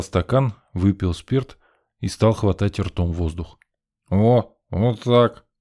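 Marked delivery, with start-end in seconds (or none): 4.1-5.5 softened. A narrator's reading. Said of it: "смягчился Миша".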